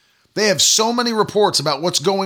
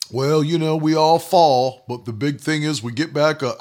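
mocking excuse-maker; 3 semitones lower than usual. Preacher parodying people who plan to fall, mocking. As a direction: imitate someone making resigned excuses. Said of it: "I don't talk like that".

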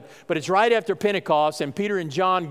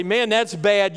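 mock dismay; 3 semitones higher, slower than usual. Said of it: "what the world would look at and say".

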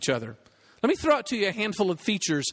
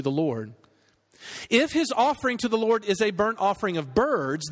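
measured, even-toned Bible reading; scripture reading. Acted. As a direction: read the passage aloud formally, phrase by phrase. Reads scripture aloud to congregation.

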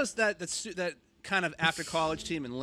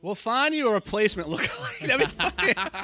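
excited; 6 semitones higher, 9 dB louder than usual. Real, not acted. Excited joking about a lookalike.

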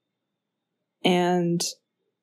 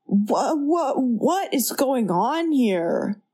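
lightly mocked bad movie acting, drawn out; dumb line delivery; 4 semitones higher, much slower than usual. Friend quoting her favorite bad movie line, dumb delivery. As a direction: imitate a clueless, stilted reading, slowly. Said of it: "He says it so fucking dumb".

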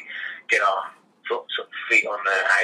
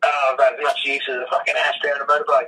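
put-on grumpy old worker; 4 semitones higher than usual. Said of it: "That was the one about the ashtray".

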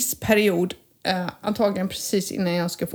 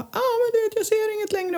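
put-on much higher, complaining old customer; whiny customer; 13 semitones higher than usual. Customer complaining to the optician about failing eyesight, whiny and high. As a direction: mimic a moaning optician customer, pitched way up. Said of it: "kunder som bara".

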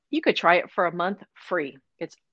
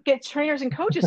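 exasperated realization; 9 semitones higher than usual. Retold or imitated. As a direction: burst out in sudden realization. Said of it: "I'm like".

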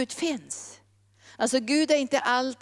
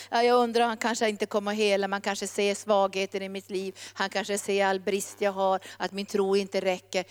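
lower, hesitant inner voice; doubtful musing; 4 semitones lower than usual. Acted. Doubter approaching God with weak faith, doubtful musing. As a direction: think aloud, unsure of being good enough. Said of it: "tänka så här".

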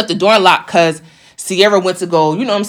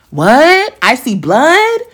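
higher, rising incredulous questions; re-enacted disbelief; 4 semitones higher, much slower than usual. Her seeing blood mid-fight, re-enacted disbelief. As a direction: act out outrage dawning, each question lifting at the end.

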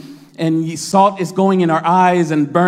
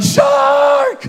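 much higher panicked scream; screaming shark; 4 dB louder than usual. Retold or imitated. Thirty-five-year-old man screams shark toward the shore, hammed-up panic. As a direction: yell the alarm to the whole beach. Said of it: "and then I'm screaming".

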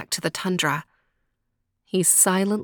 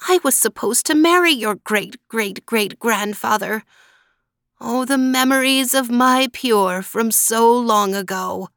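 put-on old woman voice; 4 semitones higher, 4 dB louder than usual. Old woman recalls lost love.

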